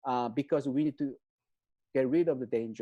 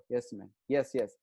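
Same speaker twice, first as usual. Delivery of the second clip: meek pushover; 4 semitones lower than usual. Retold or imitated. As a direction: answer like a timid pushover. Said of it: "It's like a pushover".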